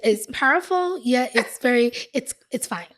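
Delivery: newscaster delivery, formal and announcing; anchor voice. Pretend. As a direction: read it like a TV news anchor. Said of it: "let me put my anchor voice on".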